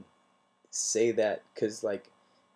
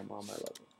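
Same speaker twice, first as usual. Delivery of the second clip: soft tender I love you; 11 dB quieter than usual. Shown as a demonstration. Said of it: "just text your mom right now".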